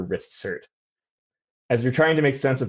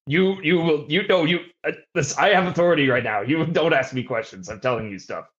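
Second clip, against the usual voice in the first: put-on Bronx accent; 4 semitones higher than usual. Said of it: "you got a weird accent".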